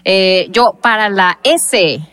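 talking while stoned, drifting. Real, not acted. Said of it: "estoy muy volada".

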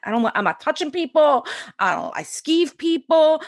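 high, whiny protest; mock scared refusal. Refusing to be a healer to coach, high mock-scared whine. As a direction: play your younger self squirming out of it. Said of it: "And I'm like".

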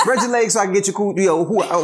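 embarrassed dad chuckling; laughing instruction. Retold or imitated. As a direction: giggle while stumbling over the word. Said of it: "I'd be like".

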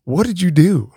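high-pitched mock disbelief; imitating a baffled husband, pitched well up; retold incredulous question. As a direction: call up to your wife, half-incredulous. Retold shout up at wife.

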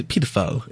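"pedophile" with a long ee, PEE-duh-file; British pronunciation. Shown as a demonstration. Quoting the British narrator, "pedophile" starting with "pee". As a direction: say "pedophile" the UK way, first syllable "pee". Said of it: "how they say it in the U K".

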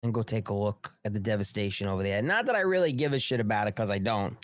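put-on a touch of indifferent old politician; mimicking Joe Biden. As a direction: stretch it out like a mocked careless president. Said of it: "This is Joe Biden speaking".

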